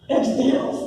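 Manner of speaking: laughing. Retold or imitated. Looks at pastor laughing.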